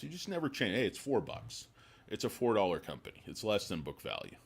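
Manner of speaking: high, mocking voice of a stubborn analyst. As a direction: sneer it like a smug analyst.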